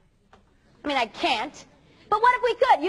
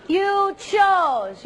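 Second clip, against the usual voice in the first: emphatic shout; 4 semitones higher, 5 dB louder than usual. Acted. Preacher confronts students.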